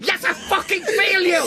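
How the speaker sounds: yelled while breaking into laughter; laughing shout. Acted. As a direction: shout it back, losing it to laughter. Forced answer, cracking up.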